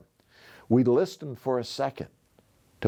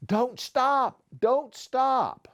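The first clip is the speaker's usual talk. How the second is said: high, breathless yell repeated; urging yell; 13 semitones higher, much slower than usual. Acted. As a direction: pull him along shouting don't stop. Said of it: "would yell".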